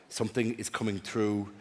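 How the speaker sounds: low, hushed medium's murmur; lightly voiced medium receiving a message; hint of a spirit medium. Medium at a séance act.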